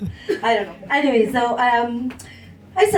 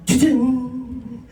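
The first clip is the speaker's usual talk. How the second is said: imitated two-note "doo-doo" chime; streaming start-up sound. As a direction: mimic a streaming app's intro noise. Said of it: "it makes this noise".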